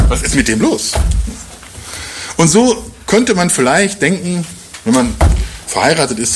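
usual speaking voice

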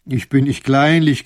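loud, smug grin; grinning. Acted. Captain gloating to the lords, grinning loudly. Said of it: "grinst der Kapitän".

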